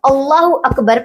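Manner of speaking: "अकबर" with a short first vowel; correct pronunciation. Shown as a demonstration. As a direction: say "अकबर" with a brief opening a. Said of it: "पढ़ा जाता है". ("अकबर" छोटे "अ" के साथ, सही उच्चारण)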